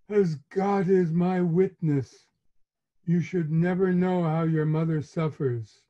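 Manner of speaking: a mother swearing to her suffering; martyred mother. Retold or imitated. Mother's martyred complaint to son.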